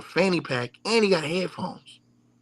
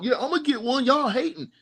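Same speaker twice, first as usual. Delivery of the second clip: mimicking fans; 10 semitones higher than usual. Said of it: "I heard dudes talking about".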